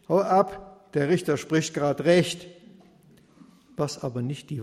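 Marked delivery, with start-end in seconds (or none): 0.1-2.5 grumpy servant. Acted.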